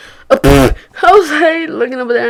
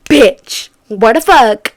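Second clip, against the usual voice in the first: mock outrage; 8 dB louder, much slower than usual. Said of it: "And I was like".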